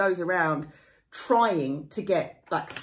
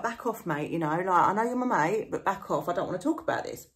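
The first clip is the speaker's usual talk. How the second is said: warning; faster than usual. Retold or imitated. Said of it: "He's warning Utterson".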